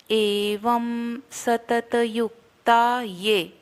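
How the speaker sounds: slow एवं सतत युक्ता ये, ये with a y; ye not e. Shown as a demonstration. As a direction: start ये clearly with y, not ए. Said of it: "इसको ये बोलना, ए नहीं बोलना है".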